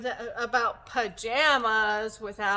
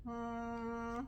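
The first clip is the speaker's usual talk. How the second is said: soft hum on one steady note; soft humming; 9 dB quieter than usual. Acted. Teacher acts baby llama humming a tune, soft hum. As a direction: hum quietly to yourself. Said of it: "Baby llama hums a tune".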